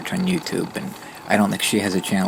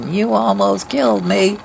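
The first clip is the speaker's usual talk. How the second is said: high raspy screech, slow and loud; mock overreaction in a drawn-out, high-pitched rasp; Mobility Mary impression; 12 semitones higher, 5 dB louder than usual. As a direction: wail it high and raspy, hammed up. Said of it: "with that really raspy voice and the high pitch".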